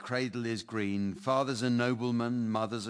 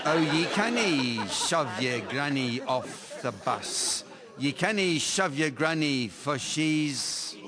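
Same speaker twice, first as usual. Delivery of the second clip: put-on Scottish accent; 3 semitones higher, 3 dB louder, slower than usual. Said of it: "my Scottish accent is too thick".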